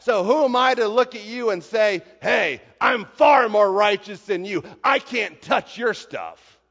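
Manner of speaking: loud, accusing sermon challenge; shouted preaching. Acted. The preacher challenging the self-righteous listener, shouting. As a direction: throw the question at them.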